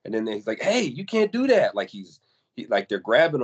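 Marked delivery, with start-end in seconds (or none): 0.6-1.7 high-pitched mock protest; raised-voice reenactment of an objection; retold protest. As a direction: imitate him objecting, pitch jumping up. Retelling the victim's protest to police.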